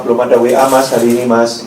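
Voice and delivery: low, calm comeback; deadpan low-pitched reply; Jesus's reply. Acted. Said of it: "Yesus jawab".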